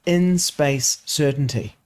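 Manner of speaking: "in space certainty" said slowly with a gap after "in"; slow correct reading. Shown as a demonstration. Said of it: "but it's meant to be".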